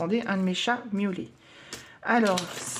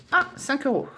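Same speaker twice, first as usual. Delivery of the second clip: pleased surprise; 7 semitones higher, 3 dB louder than usual. Real, not acted. Scratching a savings card.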